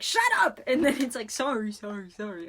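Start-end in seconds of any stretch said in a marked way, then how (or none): 0.0-0.6 high, loud shouted order; Big Weld. Retold or imitated. Co-host imitates a movie boss silencing someone, shouting. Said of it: "'Cause Big Weld's like". 1.3-2.5 imitated echo. Co-host mimics the microphone's echoing apology, fading away. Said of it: "And 'cause it echoes".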